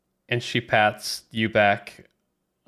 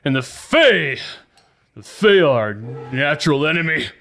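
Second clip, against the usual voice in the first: higher and louder, pompous and indignant; indignant Galago; 5 semitones higher, 4 dB louder than usual. Acted. Galago to Sherman, indignantly denouncing Lily. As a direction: denounce her like a zealot.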